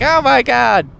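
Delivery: high, strained mock gasp of horror; shocked wife. Wife on the plane as the porno starts, squealing in shock. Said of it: "and she's like".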